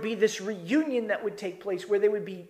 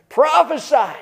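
mock taunting yell, higher; mocking shout; 5 semitones higher, 6 dB louder than usual. Guards mocking the prisoner, a loud jeering shout. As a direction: spit the word out as a jeer.

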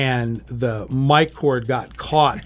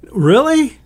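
high, loud disbelieving "really"; stunned reply on hearing of the blooper; surprised; 11 semitones higher, 6 dB louder than usual. Retold or imitated. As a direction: squeak it out in shock. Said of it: "And I said".

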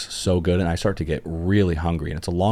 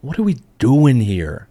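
mock despair; 6 semitones higher, 6 dB louder than usual. Real, not acted. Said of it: "craving food".

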